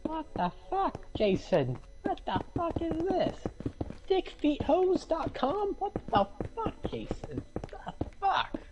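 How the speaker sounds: high-pitched outraged yelling. Real, not acted. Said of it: "He yells so much".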